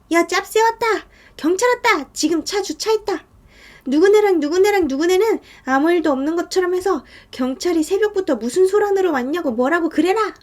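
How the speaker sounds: high, urgent warning and orders; acted urgent calling out. Landlord warning everyone police arrived, urgent calling out.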